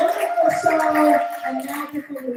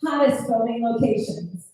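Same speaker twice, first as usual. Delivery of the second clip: tour guide spiel. Retold or imitated. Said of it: "it was".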